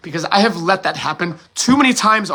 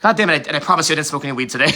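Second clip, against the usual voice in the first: laughing it off; much faster than usual. Real, not acted. Laughing off his emotion.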